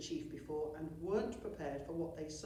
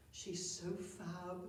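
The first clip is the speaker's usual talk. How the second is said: soft inner thought; 6 dB quieter, much slower than usual. Acted.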